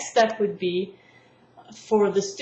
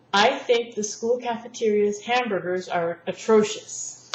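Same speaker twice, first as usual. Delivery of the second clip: slow teacher's sentence, emphasizing atrocious; stress on atrocious. Shown as a demonstration. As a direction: make atrocious stand out as the key word. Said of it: "I would emphasize atrocious".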